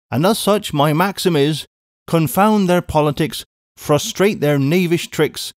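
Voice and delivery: a brisk English housekeeper calling out; a hint of a bustling maid; Miss Pross.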